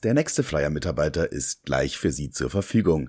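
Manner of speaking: low, deadpan recorded announcement; automated hotline voice. Pretend. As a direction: play a phone menu robot. (automatische Telefonansage)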